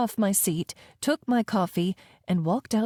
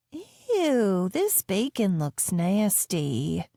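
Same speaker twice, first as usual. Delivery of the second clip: put-on disgusted child; much slower than usual. A narrator's reading.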